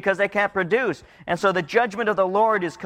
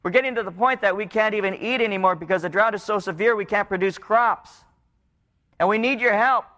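desperate people pleading; 3 semitones higher than usual. Retold or imitated. People in the drought crying out to the Lord, pleading. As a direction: beg God for rain. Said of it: "and they're saying".

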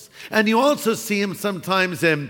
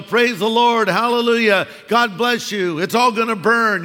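lightly parodied churchy phrases; mock Christian lingo; 3 semitones higher, 3 dB louder than usual. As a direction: rattle off the lingo, mocking. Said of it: "they know all the Christian lingo".

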